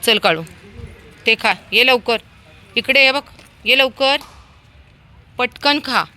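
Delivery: loud, high call to eat; calling the dog. Real, not acted. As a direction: hurry the dog to its food. (काळूला मोठ्याने जेवायला बोलावणे)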